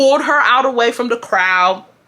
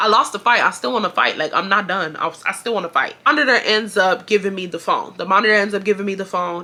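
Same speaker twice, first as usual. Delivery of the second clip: usual speaking voice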